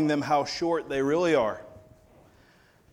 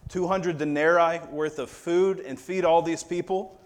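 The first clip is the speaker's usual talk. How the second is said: incredulous disciples; 3 semitones higher than usual. Retold or imitated.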